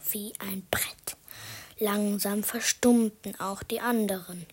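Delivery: hushed, suspenseful storyteller whisper; whispered narration. A narrator's reading. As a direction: drop to a spooky whisper.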